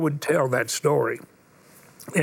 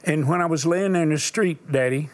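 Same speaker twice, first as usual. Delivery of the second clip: sermon storytelling. Acted. Preacher tells a dying boy's story to the congregation. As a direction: let each pause land, preacher telling a story.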